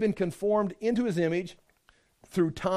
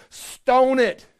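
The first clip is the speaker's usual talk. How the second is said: loud, higher mock order; harsh command; 4 semitones higher, 6 dB louder than usual. Preacher voices the law's verdict on a lamb, loud command. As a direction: bark it like a stern lawgiver.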